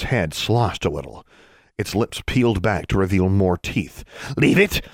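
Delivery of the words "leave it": snarled creature warning. Acted. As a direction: warn her off sharply. Creature warns.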